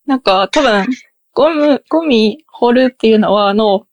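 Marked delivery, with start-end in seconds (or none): 1.9-2.9 ゴミ掘る with 掘る in high-high pitch; high-high accent. Shown as a demonstration. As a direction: keep both morae of 掘る high in ゴミ掘る. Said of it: "高い高いなんですよね、".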